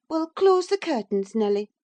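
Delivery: put-on a bright commanding young wife; Catherine, eager lady. A narrator's reading.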